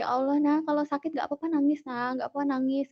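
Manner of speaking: put-on soothing, as to one's own child; retold comforting. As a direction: gently reassure a hurt little child.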